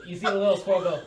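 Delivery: high, loud squirrel squeal; squeaky squirrel voice. Acted.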